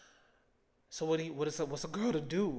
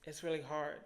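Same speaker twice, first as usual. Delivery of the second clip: emotional. Real, not acted. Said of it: "trying not to get emotional on this camera".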